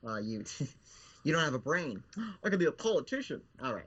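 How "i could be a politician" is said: whiny zombie. Acted. Puppet Bill pitches ideas.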